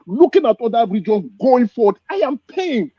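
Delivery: real pain pushing the voice up. Real, not acted. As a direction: voice lifting high on I am pained.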